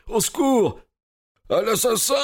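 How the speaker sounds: very high, strained cry of alarm; scream for help. A narrator's reading. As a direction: cry murder at the top of your pitch, in panic. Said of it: "Un cri, presque un hurlement retentit". (cri de terreur suraigu, presque un hurlement)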